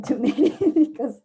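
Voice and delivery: talking through a real laugh. Real, not acted. Mother joking about teaching her kids to dance, laughing. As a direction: break into laughter mid-sentence.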